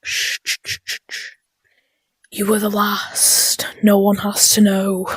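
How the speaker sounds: hushing shh into a whisper; calm them down in a whisper; secretive whisper. Acted. Hushing a witness.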